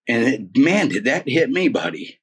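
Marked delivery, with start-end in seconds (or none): none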